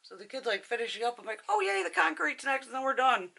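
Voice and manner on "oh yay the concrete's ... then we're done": high-pitched happy cheer; retold delighted exclamation; acted excitement. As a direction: celebrate it, pitch leaping up on "yay". Retold delight at concrete being next.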